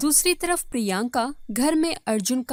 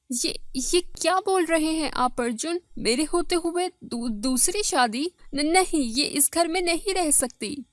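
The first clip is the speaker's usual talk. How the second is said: higher, stammering protest; shocked wife; 4 semitones higher than usual. Acted. First wife objecting to her husband's second marriage, shocked. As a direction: stumble over the words in shocked objection.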